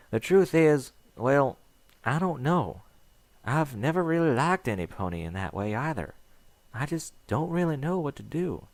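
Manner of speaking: unsure, voice lifted and nervous; Applejack voice. Acted.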